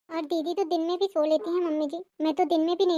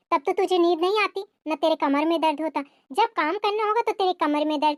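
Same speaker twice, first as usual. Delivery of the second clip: lightly lowered voice of a complaining mother-in-law; scolding mother-in-law. Acted. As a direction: nag the daughter-in-law with a touch of bitterness.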